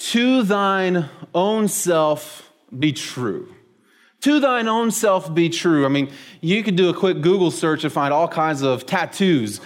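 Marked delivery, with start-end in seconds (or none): 0.1-3.5 "To thine own self be true" said very slowly, each word weighed; slow solemn quote. Shown as a demonstration. Pastor presenting the phrase to the congregation, slow and solemn. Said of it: "here's the phrase". 4.2-5.9 "To thine own self be true" repeated higher, at normal pace; lifted repeat of the quote. Shown as a demonstration. Pastor repeating the phrase to the congregation, higher and quicker. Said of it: "here's the phrase".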